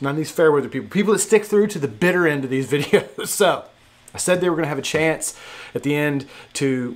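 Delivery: loud, hyped giveaway announcement; excited. Real, not acted.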